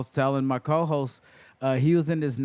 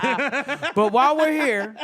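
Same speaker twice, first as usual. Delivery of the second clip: higher, slowed down through laughter; amused, drawn-out transition; laughing segue; 10 semitones higher, 4 dB louder, much slower than usual. Real, not acted. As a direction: move on while still laughing. Moving on amid laughter.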